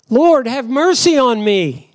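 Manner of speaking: high-pitched plea for mercy; begging cry. Acted. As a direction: cry out for mercy, mildly acted. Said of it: "she's been crying and begging out".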